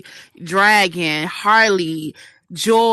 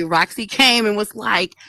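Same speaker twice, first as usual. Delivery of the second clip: ordinary delivery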